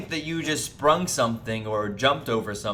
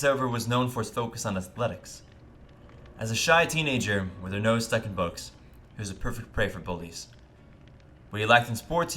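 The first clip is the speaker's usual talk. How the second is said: sportscaster voice. Acted. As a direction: read it like a smooth sports announcer. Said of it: "sexy voice I can manage. Like the sportscaster voice".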